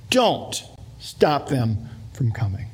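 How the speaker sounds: slow, measured indignation; indignant. Acted. Jesus to his disciples after they turned children away, slowly indignant. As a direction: drag out a stern, disgusted order. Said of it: "he's indignant and disgusted and says".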